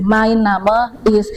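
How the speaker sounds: MEIN NAME IST slowly, mein with A-I; German pronunciation. Shown as a demonstration. Teacher modelling for the class, slow German pronunciation. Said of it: "itu bacanya A I".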